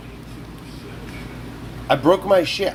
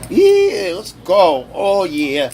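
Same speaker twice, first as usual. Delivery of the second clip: hype yell; 3 semitones higher, 4 dB louder, much slower than usual. Real, not acted. Hype cheer.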